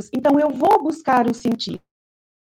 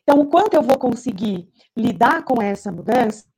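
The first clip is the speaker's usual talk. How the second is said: glitchy robotic call. Real, not acted. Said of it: "tá picotando muito o teu som".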